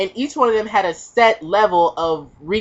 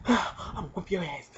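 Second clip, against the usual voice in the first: low quick threat; 3 semitones lower, 16 dB quieter, faster than usual. Retold or imitated.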